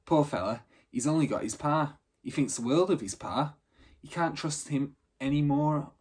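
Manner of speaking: a hint of a street girl feeling for him; Bridie sympathising. Bridie pities Thunderbolt.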